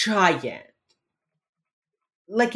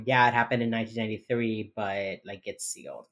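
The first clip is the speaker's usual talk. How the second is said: depressed; 4 semitones lower, 3 dB quieter than usual. Retold or imitated. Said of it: "who is depressed".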